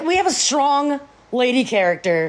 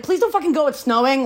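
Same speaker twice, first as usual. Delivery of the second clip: mock pleading; 6 semitones higher than usual. Trisha pleading with Dawn.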